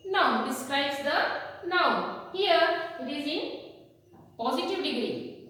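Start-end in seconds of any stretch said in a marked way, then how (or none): 0.1-2.3 slow, deliberate definition; slow teacher emphasis; slow explanation. Shown as a demonstration. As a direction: spell out "noun, describes the noun" slowly for children. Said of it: "Adjective means describing".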